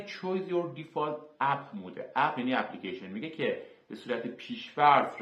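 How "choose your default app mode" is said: English words read out very slowly, one by one; slow English label reading. Shown as a demonstration. A tutor reads the English setting name to students, very slow and deliberate. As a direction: read the Windows menu label slowly to learners, spelling it out.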